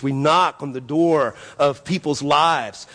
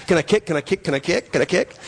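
lightly imitated eager small boy; quick string of questions, each tipping upward; little kid pestering; 3 semitones higher, faster than usual. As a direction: nag like a kid who won't let up. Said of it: "He's just a little bitty guy".

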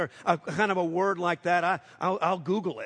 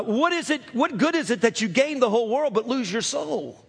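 high, pressing question; lightly voiced Jesus challenging; Jesus challenging listeners, higher; Jesus asks; 6 semitones higher than usual. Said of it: "questions from Jesus like".

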